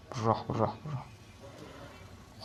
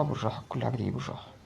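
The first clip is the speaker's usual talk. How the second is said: calming himself; 6 dB quieter than usual. Real, not acted. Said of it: "طب بالراحة".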